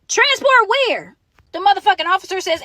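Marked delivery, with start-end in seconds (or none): 0.1-1.2 slow, high retold retort; incredulous question. Detainee answering officers who announce transport, incredulous. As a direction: question the order in drawn-out disbelief.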